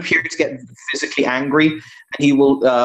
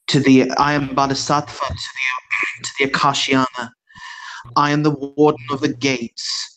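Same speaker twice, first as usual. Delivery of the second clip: calm monk. Acted. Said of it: "he will very calmly turn and he will say".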